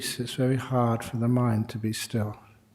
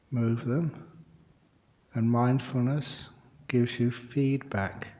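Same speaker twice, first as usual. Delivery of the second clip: calm, measured meditation guidance; guided meditation. Real, not acted. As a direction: guide them gently, with unhurried pauses.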